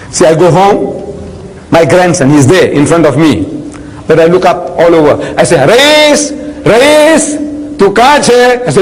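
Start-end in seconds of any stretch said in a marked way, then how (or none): 5.6-8.6 put-on sing-song call, pitched higher, to a hiding child; playful calling out. Grandfather playing hide and seek, calling his grandson in a higher, teasing voice. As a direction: call out for a grandson you pretend not to see.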